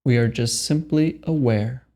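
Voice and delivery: slow, spacious meditation guidance with long pauses; guided meditation. Acted. Meditation guide telling listeners there is nothing to do, unhurried guided meditation. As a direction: lead them unhurriedly into stillness, pausing between phrases.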